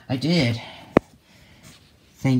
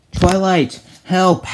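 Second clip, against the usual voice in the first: high, loud plea for help; frightened shout; 5 semitones higher, 4 dB louder, slower than usual. Acted. Spike begs Twilight for help, shouting in fear. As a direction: cry out, being chased. Dragon chased, calls for help.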